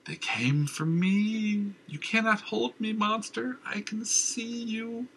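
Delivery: high slow frantic cry; shrill raving madman. Acted. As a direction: wail at the unseen monster. Madman cries out.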